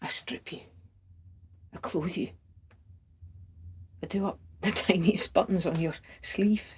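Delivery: tender intimacy. Acted. Lover imagining dressing and embracing the beloved, softly tender. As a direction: say it hushed, lingering between each touch.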